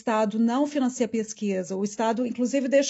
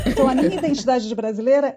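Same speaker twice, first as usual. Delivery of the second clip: laughing; 5 dB louder, faster than usual. Real, not acted. Still laughing about her accent.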